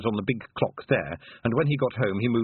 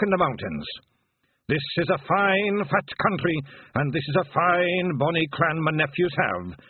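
put-on old piper longing for home; sad old Feegle bard; 6 semitones higher, 3 dB louder than usual. A narrator's reading. William's farewell.

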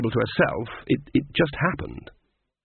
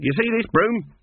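demanding; 9 semitones higher than usual. A narrator's reading. Granny repeats the demand.

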